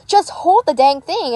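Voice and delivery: high, drawn-out scolding; mock yell. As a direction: imitate an exasperated woman telling someone off. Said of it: "she yelled at him".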